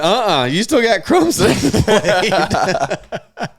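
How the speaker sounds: laughing refusal. Retold or imitated. Teen telling the sick boy no deal, laughing. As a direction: deny him while cracking up. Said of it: "I'm like".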